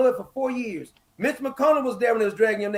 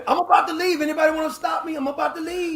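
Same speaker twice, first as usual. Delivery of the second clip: mocking; 4 semitones higher than usual. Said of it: "you gotta tell me".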